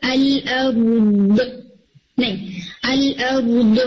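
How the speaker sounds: "ال، ا، د" chopped with stops between sounds; clipped, broken-off "د"; students' broken dad. Shown as a demonstration. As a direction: stop short and split "ال، ا، د". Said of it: "جیسے sometimes students stop کرتے ہیں نا".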